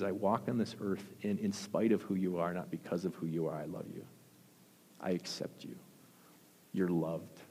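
gentle, softening to near whisper; tender, fading to a hush. Acted. Christ reassures the sinner, tender and hushed.

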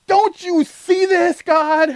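very slow, high, loud plea; hammed-up protest to God; Moses complaining. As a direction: stretch every word in disbelief. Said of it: "Moses is like".

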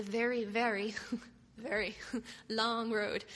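amused laugh breaking into the words; laughing through it. Real, not acted. Telling friends about a long van ride, laughing. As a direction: laugh as you drag out the long road. Laughing at the endless Canadian road.

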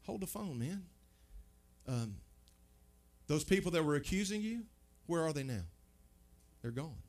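soft, tender reassurance; Jesus softly reassuring the weeping woman; gentle Jesus. Acted. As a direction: speak softly to a frightened woman.

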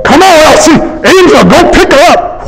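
mock-exasperated coaxing; impatient urging. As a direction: hurry them along, lightly hammed up. Acted impatient calling to Elsie and angel.

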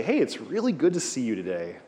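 mock salesman's cheery hello; salesy greeting. Shown as a demonstration. Teacher demoing a pushy salesman's greeting. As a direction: greet them like you're about to sell something. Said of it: "What are you gonna sell me?".

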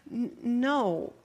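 soft, halting, kindly no; gentle refusal. Acted. Jesus turning down the disciples' idea, very gently. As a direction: let them down gently. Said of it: "Very gently, he says".

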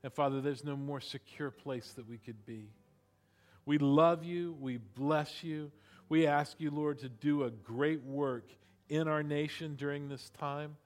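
earnest, hushed pastoral prayer. Acted. Pastor closing in prayer to God, earnest prayer voice.

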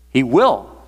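emphatic lift on "will"; stress on will. Shown as a demonstration. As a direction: hit "will" hard. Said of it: "I'm emphasizing the word will".

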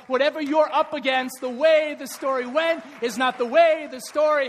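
loud rousing sermon call; full-force preaching. Acted. Pastor rallying the congregation, loud preaching. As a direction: lift the room with conviction. Preaching climax, break the cycle.

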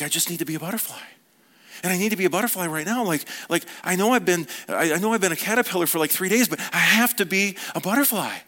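lightly voiced tiny caterpillar, mounting urgency; impatient little caterpillar. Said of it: "you hear a tiny little voice".

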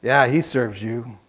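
Satan's voice. Acted.

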